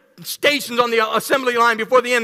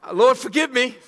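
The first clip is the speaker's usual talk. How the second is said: laughing; 5 semitones higher than usual. Real, not acted. Laughing through confession.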